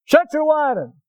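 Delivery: dad with no sympathy; gruff dad. Retold or imitated. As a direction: bark it like an impatient father. Gruff dad voiced in story.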